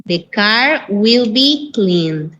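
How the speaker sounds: very slow, word by word English; teacher modelling the passive; very slow model sentence. Shown as a demonstration. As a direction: dictate it to the class.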